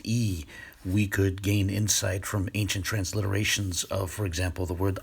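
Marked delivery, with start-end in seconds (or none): 0.1-0.4 "E" said as a long ee; long E sound. Shown as a demonstration. Lecturer explains the final yod, long ee sound. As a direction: say "E" as the vowel in "see". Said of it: "that yod at the end is pronounced".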